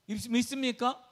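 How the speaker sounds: 믿습니까 said high and loud. Real, not acted. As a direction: demand an answer on 믿습니까. Preacher asks congregation.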